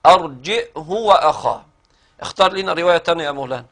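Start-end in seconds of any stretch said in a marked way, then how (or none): 0.1-1.6 أرجئه with hamza and the ha given a short damma, no lengthening, said slowly; as-Susi's reading. Shown as a demonstration. Teacher demonstrates as-Susi's reading for the student, slow and exact. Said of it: "هكذا".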